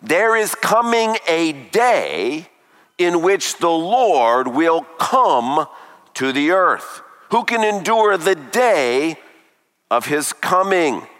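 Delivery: slow, with "day" leaned on each time; stress on day. Shown as a demonstration. Preacher makes the congregation notice the word day, slow stress. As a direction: draw out "day" so it rings. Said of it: "take note of the word day".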